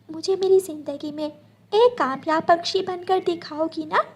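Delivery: put-on high, childlike sparrow voice; a small girl worried for her mother; little daughter. Daughter asks her sad mother what happened.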